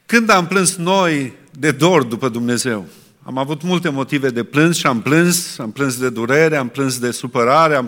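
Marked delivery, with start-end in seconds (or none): 0.1-2.9 pressing question. Real, not acted. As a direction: press the congregation with it. Preacher repeats question, now pressing.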